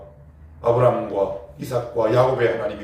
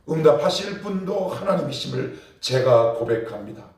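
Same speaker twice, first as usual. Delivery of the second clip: raised, pleading prayer voice, pitched up; fervent spoken prayer; 3 semitones higher than usual. Shown as a demonstration. Pastor shows the congregation a bold spoken prayer. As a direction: pray it aloud with conviction. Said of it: "입술로 선포하고 기도하십시오".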